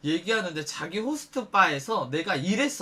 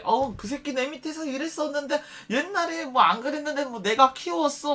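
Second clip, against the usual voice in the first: mock boasting host; 7 semitones higher than usual. Mocking host's boasting.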